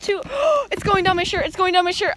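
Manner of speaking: gasping shock at cold snow; gasping in icy wind. Real, not acted. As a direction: gasp as snow hits skin. Snow down her shirt.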